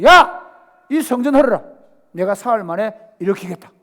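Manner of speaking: 크게 외치는 호령; 한 번에 크게 내질러 명령해; commanding shout. Retold or imitated. 성전에서 꾸짖는 예수 흉내. (높고 크게 외쳐 명령하는 예수)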